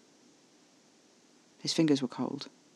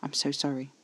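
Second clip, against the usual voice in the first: hushed, soft apology; whispered apology; 7 dB quieter than usual. A narrator's reading. Apologizing to Alfie after leaving, hushed and soft. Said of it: "Caspar whispered".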